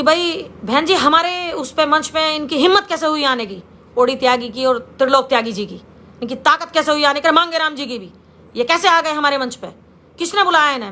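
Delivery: mildly indignant quoted reproach; retold scolding. Men scold her over guests on their stage, mildly angry. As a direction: lightly act out an accusing telling-off. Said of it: "तो मुझे डांटा".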